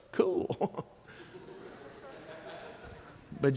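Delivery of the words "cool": an understated, breathy-cool Jesus; Jesus answering the excited disciples, coolly; laid-back cool. Retold or imitated. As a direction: shrug it off, cool. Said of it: "Jesus said".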